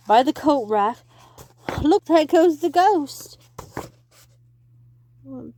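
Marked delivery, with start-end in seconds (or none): 1.8-3.4 high loud exclamation; excited call. Acted. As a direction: point at the ghost. Chase scene.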